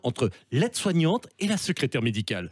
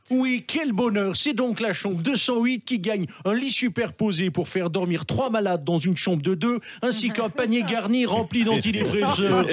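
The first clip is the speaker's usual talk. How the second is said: Stéphane Bern impression; 3 semitones higher than usual. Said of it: "avec Stéphane Bern".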